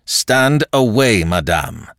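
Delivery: André ordering the countess aside, stern; stern command. Acted. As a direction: lay down the order with cold authority. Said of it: "he commanded her again, more sternly".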